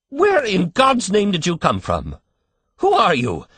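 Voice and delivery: frantic outburst. A narrator's reading. Father bursting out at the strange old baby, frantic. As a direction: blurt it out in a frantic panic. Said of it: "burst out Mister Button frantically".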